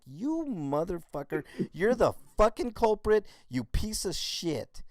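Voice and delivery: retold cursing.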